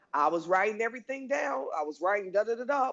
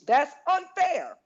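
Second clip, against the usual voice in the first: "unfair" pushed up high and louder; stress on unfair; 8 semitones higher, 4 dB louder, slower than usual. Shown as a demonstration. She shows how she says "unfair" at work, stressing it. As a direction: lean hard on "unfair". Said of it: "and I stress the word unfair".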